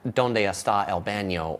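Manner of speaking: a light, mock American-gringo Spanish accent; asking a waiter for the bathroom in a mock gringo Spanish accent; worst gringo accent. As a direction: say it like a self-mocking American tourist in Spanish. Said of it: "in my worst gringo accent".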